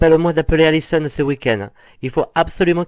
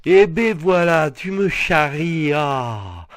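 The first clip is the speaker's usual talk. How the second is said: relieved realisation; much slower than usual. Acted. Realises he is being teased.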